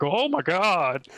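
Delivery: drawn-out, swooping mock gasp of fandom; imitated fan freakout. Imitating anime fans freaking out over the trailer, mock freakout. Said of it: "Like, freaking out".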